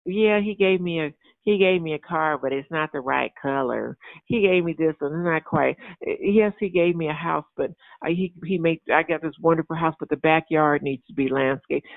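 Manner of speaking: sulky ungrateful whine about a blessing; whiny complaining. Retold or imitated. A complainer grumbling over God's gift, mock whine. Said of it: "the other one that will just murmur and complain".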